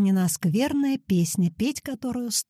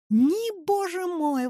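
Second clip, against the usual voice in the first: high, bright-pitched exclamation; grandmother's high exclamation; exclaiming; 9 semitones higher, much slower than usual. A narrator's reading. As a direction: throw the pitch up in protest. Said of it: "воскликнула бабушка".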